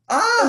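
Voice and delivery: high, loud squeal of delight; excited squeal. Real, not acted. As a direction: let out a real squeal of joy. Thrilled about cooking with Pepin.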